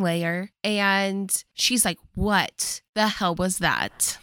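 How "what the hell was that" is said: slow, word-by-word retold outrage; pissed-off demand. Confronting Josh in the basement, pissed off. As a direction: imitate her indignation, drawing out each word. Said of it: "She is so pissed".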